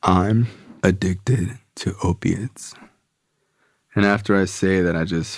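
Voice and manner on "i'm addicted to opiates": slow confession. Retold or imitated. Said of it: "And I say out loud".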